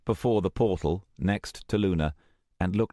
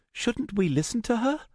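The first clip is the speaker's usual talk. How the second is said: put-on puzzled young woman. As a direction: ask in puzzlement. Luna hesitant.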